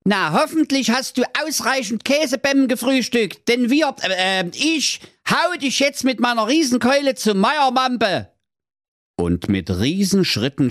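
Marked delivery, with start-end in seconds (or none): 0.0-8.3 high comic booming threat; thundering giant. A narrator's reading. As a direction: threaten him like a blustering giant. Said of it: "mit seiner donnernden Stimme".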